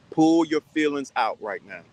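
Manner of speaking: firm, leaning on pull; stern command. Real, not acted. A host sternly ordering a smitten man, firm. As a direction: order him to pull back. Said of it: "I'm saying it sternly".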